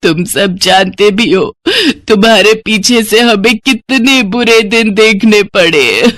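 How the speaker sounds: slow, sobbing complaint to her sons; mother weeping at her sons, slow and sobbing; tearful reproach. Acted. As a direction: let the words break with grief. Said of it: "वो रोते हुए कहती है".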